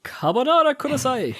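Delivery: high-pitched mimicked Japanese food order; imitated interruption. Imitating an anime character cutting in, high mock interruption. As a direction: butt in with a high character impression. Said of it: "he interrupts him with carbonara kudasai".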